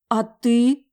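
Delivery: high, loud startled question; taken aback. A narrator's reading. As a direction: blurt it out in surprise. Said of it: "Захлопала я глазами".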